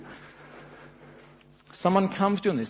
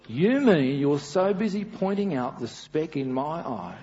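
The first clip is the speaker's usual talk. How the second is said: ordinary talk, nothing marked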